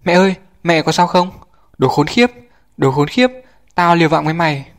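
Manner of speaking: high, loud cry of pain and rage; anguished shout. A narrator's reading. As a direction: scream for your hurt mother. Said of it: "lòng đau xót hét lên".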